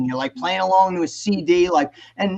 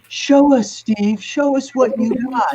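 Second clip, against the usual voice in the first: higher-pitched rock idol goading; a famous rock singer; 4 semitones higher than usual. Retold or imitated. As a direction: egg him on with a smirk. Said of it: "with that Paul Stanley smirk on".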